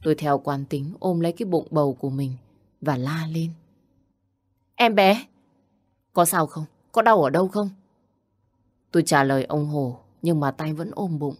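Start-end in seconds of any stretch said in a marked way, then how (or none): 4.8-7.7 worried alarm. Acted. Mr Hổ rushes to fallen woman.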